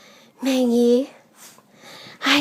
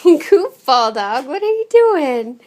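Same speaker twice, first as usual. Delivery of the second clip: laughing. Real, not acted. Laughing at the dog.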